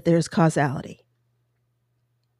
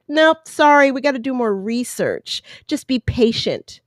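mock dismissive; 5 semitones higher than usual. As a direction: imitate officials turning someone away. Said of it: "And they're like".

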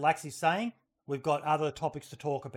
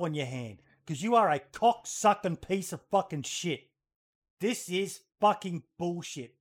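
raised, slowed, swearing outrage; furious rant; 3 semitones higher than usual. Real, not acted. Host fuming at players who bully a lady, furious rant. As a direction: let the disgust boil over, spitting each curse.

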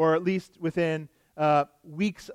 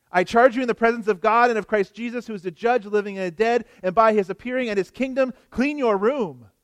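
hammed-up grand oath over a chore; mock solemn charge; 2 semitones higher, faster than usual. Shown as a demonstration. Preacher mocking a chore order as a solemn oath. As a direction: make cleaning a room sound like holy duty, rushed. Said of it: "that's a bit overkill for bread".

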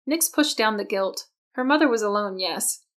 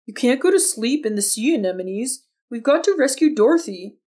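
recited line; 3 semitones higher, 4 dB louder than usual. A narrator's reading. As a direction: project it like an actor rehearsing. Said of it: "he recited".

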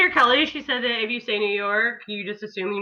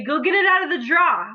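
imitated Connecticut accent; 3 semitones higher, 4 dB louder than usual. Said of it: "'cause they just said drawer".

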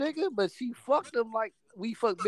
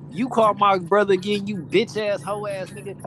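1 angry threat; 6 dB louder than usual. Retold or imitated. Sister voiced threatening the ex.

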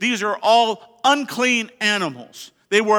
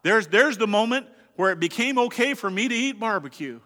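mock gloating; 4 semitones higher than usual. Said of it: "some might point at it and say".

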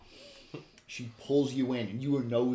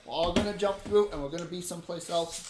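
high, loud, breezy explanation; lively reassurance to the party; upbeat portal guide character; 7 semitones higher, 7 dB louder than usual. Acted. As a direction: explain it cheerfully in a raised character voice. Game master plays Alyssa.

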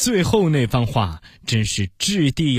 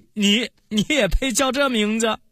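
higher-pitched scornful scoff; sneering; 6 semitones higher than usual. A narrator's reading. Rival mocking the young actor's chosen name, sneering. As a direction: laugh coldly, then stammer out the put-down. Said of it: "有一个人却冷笑道".

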